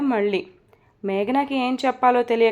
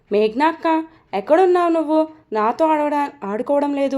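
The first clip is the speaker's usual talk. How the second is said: calling out; 4 semitones higher than usual. Acted. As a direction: call out to find her. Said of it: "అని పిలుస్తాడు బిట్టు".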